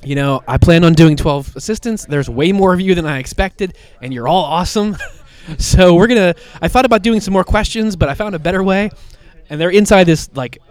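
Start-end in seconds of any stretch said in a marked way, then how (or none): 0.0-8.9 louder, higher hyped host announcement; rally a room of misfits from the stage; a touch of gleeful laughter, much louder; voicing Harley addressing applicants. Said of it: "She's like".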